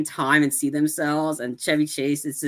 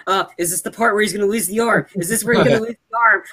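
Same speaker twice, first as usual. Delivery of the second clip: quick, higher nervous voicing of Biff; mock nervous muttering; panicky fast worry; 4 semitones higher, 3 dB louder, faster than usual. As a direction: rattle it off like a worried bellhop. Biff panicking in elevator scene.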